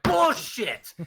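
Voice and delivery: high, punched-out exclamation; retold disbelief. Retelling how you doubted your friend's excuse, disbelieving. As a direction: call out his excuse, high and forceful.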